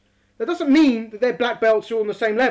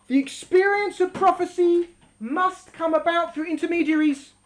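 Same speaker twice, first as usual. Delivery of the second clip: tag; 4 semitones higher than usual. Acted. Reads text to be highlighted.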